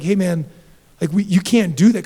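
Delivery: upset scolding. Retold or imitated. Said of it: "I was upset at him 'cause I was like".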